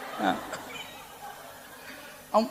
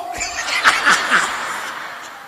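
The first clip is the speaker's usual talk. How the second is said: breathy laugh. Real, not acted. Airy laugh.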